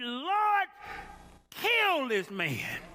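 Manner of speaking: high plea on "Lord", then slow, falling "kill this man"; acted prayer. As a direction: imitate a disheartened prayer, dropping slowly to the end. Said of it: "she went off and she prayed".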